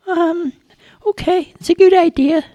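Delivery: put-on a jumpy young guard yelling Stop; shouted high challenge. A narrator's reading. Charlie challenges a stranger at the barricade, high squeaky shout.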